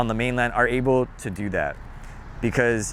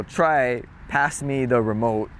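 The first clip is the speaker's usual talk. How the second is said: slow demo; slower than usual. Shown as a demonstration.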